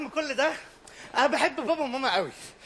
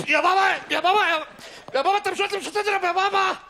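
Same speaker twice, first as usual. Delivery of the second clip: pleading yell; 6 semitones higher than usual. Acted. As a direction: plead desperately with dad. Kid pleads with father.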